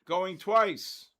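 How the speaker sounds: loud, drawn-out auctioneer call. Real, not acted. Auction-style countdown call.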